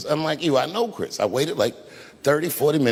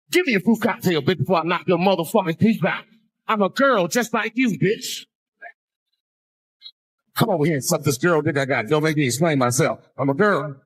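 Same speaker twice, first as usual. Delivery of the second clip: tough inmate threat; 3 semitones higher than usual. Retold or imitated.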